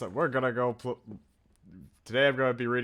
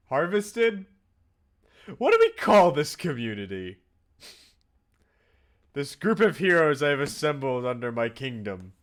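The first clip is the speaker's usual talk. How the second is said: grandiose king; 3 semitones higher, 6 dB louder than usual. Pretend. Jokes about ruling his community.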